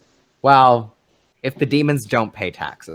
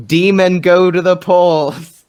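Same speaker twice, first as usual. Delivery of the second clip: announcer voice; 7 semitones higher, 7 dB louder, slower than usual. Pretend. Playful slogan shout.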